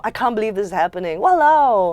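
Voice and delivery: fed-up Singlish outburst; exasperated exclamation. Shown as a demonstration. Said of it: "Walao is like".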